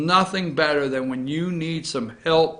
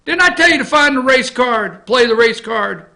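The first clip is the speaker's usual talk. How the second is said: mock bossy demand; 8 semitones higher, 4 dB louder than usual. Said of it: "I like to say it like".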